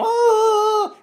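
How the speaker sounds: high, loud imitated gasp of dismay; mock family dismay. Family reacting to the foreigner refusing, high shocked oh. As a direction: mimic the family's shocked groan. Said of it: "his whole family's going".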